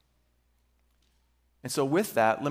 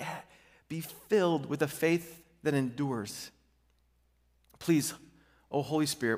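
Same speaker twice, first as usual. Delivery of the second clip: hushed pastoral prayer, sinking lower toward the end; 3 semitones lower than usual. Real, not acted. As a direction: lead the church gently in prayer. Pastor leads congregation in prayer.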